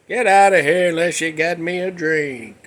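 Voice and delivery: mock-grouchy comedian impression; W C Fields. Comedian demanding a drink, lightly voiced grouchy impression. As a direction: lightly imitate a boozy comic brushing someone off. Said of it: "that's how he talked".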